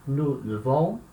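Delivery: "levons" with a weak "euh" in the first syllable; E fraco mantido. Shown as a demonstration. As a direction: keep the E of "levons" unopened, as "euh". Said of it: "O som permanece com E". ("levons" com o primeiro E fraco, som de "eu" francês)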